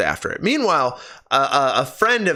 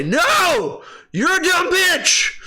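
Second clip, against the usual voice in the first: mock scream; 12 semitones higher, much slower than usual. Reviewer yelling at the movie's character in mock frustration. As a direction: let the frustration burst out in a yell. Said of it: "I just wanted to scream and say".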